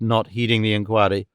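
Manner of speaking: ordinary delivery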